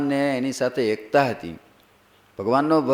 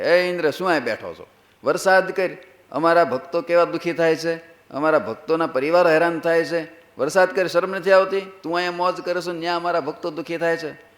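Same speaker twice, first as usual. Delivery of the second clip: higher-pitched, indignant command to Indra; acted scolding; 3 semitones higher than usual. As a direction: scold Indra as a protective Swami, lightly hammed up. Swami scolds and orders Indra. (ઠપકાભર્યો આદેશ, અભિનય સાથે)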